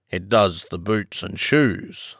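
slow, lightly solemn pronouncement; understated solemn Griffin, unhurried. Acted. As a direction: state it slowly and gravely. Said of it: "replied very solemnly".

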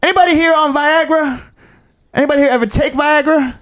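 a comic polling the crowd; comedian working crowd. Retold or imitated. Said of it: "So he goes".

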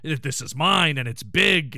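lightly voiced manly boast; mock manly. Host imitating Frasier driving the Winnebago, mock manly. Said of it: "He's feeling so manly".

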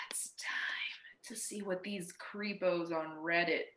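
hushed mock spooky; softly whispered. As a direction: whisper it like a secret. Mock secretive intro.

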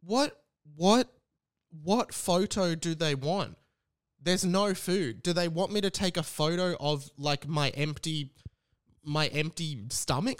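put-on slow, baffled drunk confusion; dragging, puzzled voice of someone quite drunk. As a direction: act out drunk bewilderment at the request. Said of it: "And I'm like".

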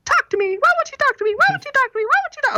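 high, whiny, near-crying wife begging him; mock pleading wife. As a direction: whine it out, almost in tears. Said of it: "And you tell him".

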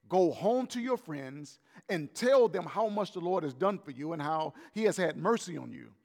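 measured reading of the Bible passage; scripture reading. Acted. Pastor reads Mark's passage to the congregation, measured.

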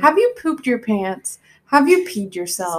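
lightly voiced infomercial host; commercial voice. Podcast host asking listeners about accidents, mock commercial voice. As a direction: ask it like a mock ad. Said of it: "I'm going into my commercial voice".

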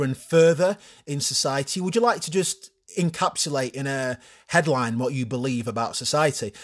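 lightly voiced morning show host; TV presenter Phil. Host asking his guest about her views, a touch of TV presenter. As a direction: ask it like a smooth TV interviewer. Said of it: "Phil interviewing Rochelle".

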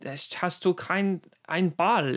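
lightly voiced creepy Peter Lorre, slow German; a hint of the creepy killer, slow; slow, creepy German murmur; Peter Lorre impression. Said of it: "he talks so high".

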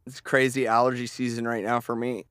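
congested, blocked nose voice; stuffed up nose. Real, not acted. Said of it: "I'm all stuffed up".

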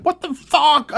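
reliving the panic over the dent; retold scream. To a friend, reliving the dent, high mock scream. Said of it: "starting to fucking scream".

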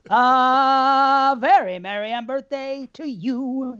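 a hint of a whimsical Mad Hatter, slowed down; mock Mad Hatter. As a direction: lightly play the Mad Hatter greeting. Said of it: "Brandon's the Mad Hatter now".

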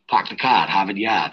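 put-on light Boston accent, dropped r's. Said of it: "Can we hear your accent?".

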